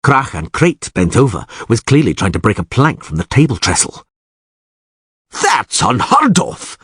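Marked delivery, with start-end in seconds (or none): 5.4-6.8 yelled. Acted. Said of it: "yelled Visigerd".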